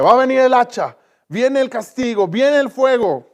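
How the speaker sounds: preacher voicing John the Baptist's loud warning of fire; stern warning. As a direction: thunder out the coming judgment like a prophet. John the Baptist warns of punishment.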